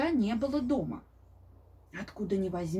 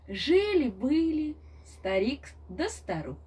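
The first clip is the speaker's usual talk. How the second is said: grandma telling fairy tale. A narrator's reading. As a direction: tell it like a grandmother at bedtime. (бабушка рассказывает сказку)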